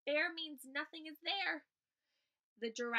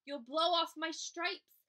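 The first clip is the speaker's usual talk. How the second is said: loud, raised zebra yelp; storybook zebra's alarmed cry; yelling in alarm; 4 semitones higher, 6 dB louder, slower than usual. A narrator's reading. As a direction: yell it out, pitched up. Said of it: "the zebra yelled".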